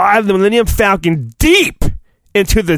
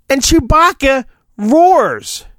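excited narration; 5 semitones higher than usual. Acted.

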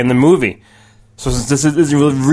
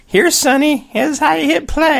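high, doting mom talking down; mommy voice; 11 semitones higher than usual. Pretend. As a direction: coo it like a fussy mom to a little kid. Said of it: "Ask your mommy to come over".

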